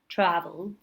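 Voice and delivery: "travelled" said as "traveld"; two syllables, "travelled" ending in D; final D sound. Shown as a demonstration. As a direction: finish "travelled" on D, no extra vowel. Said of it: "sounds like a D and without the vowel".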